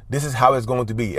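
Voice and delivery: no doubt, no room to argue; firm, certain. Shown as a demonstration. Teaching co-parents the firm tone, certain. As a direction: state it flat out as fact. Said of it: "as opposed to".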